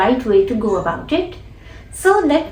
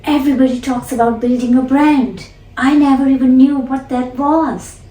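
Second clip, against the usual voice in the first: lightly mimicking Oprah, a bit louder; shadowing Oprah; 3 dB louder than usual. Shown as a demonstration. Teacher shadowing Oprah's interview line, lightly mimicking her. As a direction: echo her lines, a little brisker. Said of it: "So let's try it".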